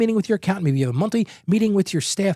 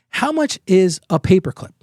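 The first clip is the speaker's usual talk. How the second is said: smart aleck; 4 dB louder than usual. Retold or imitated. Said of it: "you're being a smart aleck".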